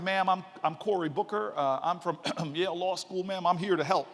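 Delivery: imitating his cocky young self, puffed up; mock swagger. Young law student introducing himself to elder, mock swagger. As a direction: play the eager law student strutting in. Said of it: "that swagger".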